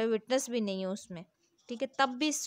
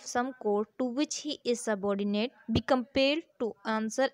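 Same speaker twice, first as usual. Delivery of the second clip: slow, deliberate, louder reading of the law text; statute reading; 3 dB louder, much slower than usual. Acted. Teacher reading the law to students, slow formal reading. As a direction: read each clause out slowly, like dictating. Teacher reads next article.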